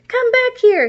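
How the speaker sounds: high, loud honking yell; honking shout. Acted. Monster truck chasing Little Red, high, loud honking yell. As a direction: blast it like a truck horn. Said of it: "he honked".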